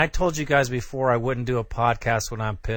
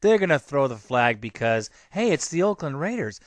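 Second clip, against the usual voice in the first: pissed off; 6 semitones higher, 4 dB quieter than usual. Real, not acted. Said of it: "'cause I'm pissed".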